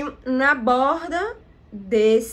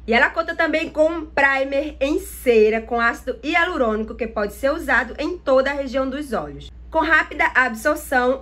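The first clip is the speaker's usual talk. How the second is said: reading the box text. Shown as a demonstration. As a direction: read the packaging copy like a product blurb. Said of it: "ler o que tá escrito aqui na caixinha".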